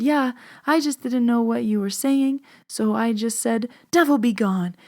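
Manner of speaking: a hint of a Lebanese grandma; Lebanese grandma accent. Grandma explains her made-up words, lightly imitated Lebanese accent. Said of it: "barely can write her name grandma".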